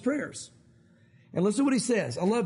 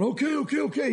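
higher, lightly acted agreement; a hint of an impressed crowd going along; reassured crowd; 5 semitones higher than usual. The people walking away after Moses speaks, lightly acted agreement.

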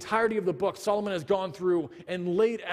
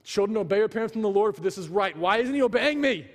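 getting mad; 3 semitones higher than usual. Retold or imitated. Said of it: "So now I'm getting mad".

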